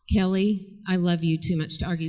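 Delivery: calm mother. Acted. Mother repeating her line to arguing daughter, calm. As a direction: repeat it patiently, giving nothing away.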